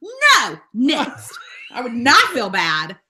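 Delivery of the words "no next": high, quick no, then next; rapid quiz-show reply; lightning-round answer. Shown as a demonstration. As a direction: fire it off like a buzzer answer. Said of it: "answer it like a lightning round".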